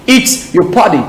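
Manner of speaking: relaxed American flap accent demo. Shown as a demonstration. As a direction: say it American, "party" like "pardy". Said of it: "Accent américain".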